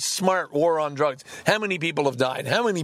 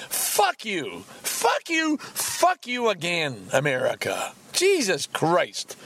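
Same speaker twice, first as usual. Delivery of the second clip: real anger; slower than usual. Real, not acted. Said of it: "I am really, really angry about this".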